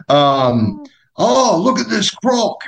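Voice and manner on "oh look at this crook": high, slow squeaky Aussie voice; Australian accent. Pretend. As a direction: overdo a Steve Irwin Aussie. Aussie bit continued.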